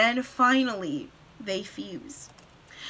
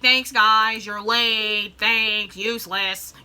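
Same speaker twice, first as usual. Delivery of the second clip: mock-annoyed, building louder; sarcastic scolding; 6 dB louder than usual. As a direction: tell off latecomers with hammed-up exasperation.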